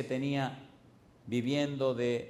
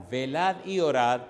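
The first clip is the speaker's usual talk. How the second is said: emphatic scripture; 6 dB louder than usual. Acted. Cita bíblica enfática.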